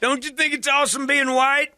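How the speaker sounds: high hammed-up stranger; mock gun guy. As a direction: ask with squeaky glee. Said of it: "mock gun guy".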